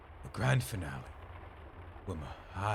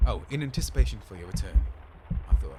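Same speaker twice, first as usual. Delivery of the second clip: louder, faster mock repeat; 7 dB louder, faster than usual. Shown as a demonstration. Repeating Arthur's sign-off in a louder, faster mock. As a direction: throw his words back at him. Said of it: "repeats the signature mockingly".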